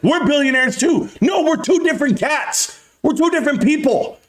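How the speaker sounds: ramp up into a furious rant; escalating comedy rant. Real, not acted. Rant escalating against Wall Street.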